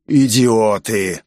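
slow, grinding monster growl; clanking monster voice. A narrator's reading. Monster holding its jaw shut, slow clanking creature voice. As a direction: drag the word out through a broken jaw. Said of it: "пролязгал он".

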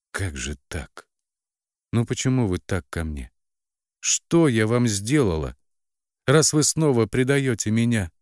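betrayed daughter cries out to her parents, rising; exclaiming. A narrator's reading. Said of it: "воскликнула".

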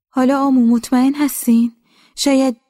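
put-on old woman voice. Grandmother voiced asking anxiously.

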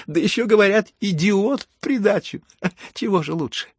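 high, loud, gloating through laughter; laughing out loud. A narrator's reading. Bride mocks the general and guests, laughing wildly. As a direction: crow it between bursts of laughter. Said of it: "заметила и захохотала".

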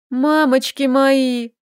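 slow mock wail; wailing lament. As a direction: moan it out in mild dread. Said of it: "запричитала Лиля". (причитая, медленно)

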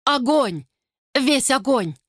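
high frantic cry; woman in agony screaming; anguished scream. Acted. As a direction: scream about the fire inside.

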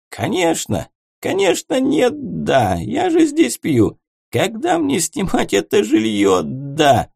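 put-on high, slow, slurred drunk rambling; barely moving the tongue, drunk; slurring drunk. A narrator's reading. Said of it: "еле ворочая языком".

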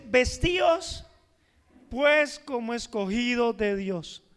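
slow, weighty reading of scripture. Acted. Pastor reading Colossians aloud, slow and solemn. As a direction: read each word slowly and solemnly.

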